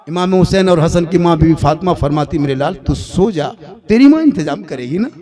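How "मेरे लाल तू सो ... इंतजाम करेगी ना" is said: a hint of a comforting mother; tender mother. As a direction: hush the children to sleep gently. Fatima soothes her sons.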